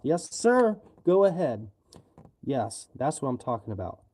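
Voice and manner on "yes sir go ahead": eager cop. Retold or imitated. Imagined cop lets him punch.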